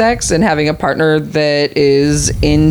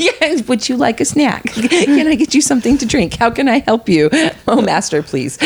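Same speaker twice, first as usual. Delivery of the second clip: higher simpering servant, giggling through it; 7 semitones higher than usual. Pretend. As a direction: fawn over your master, half laughing. Mock servile role-play with master.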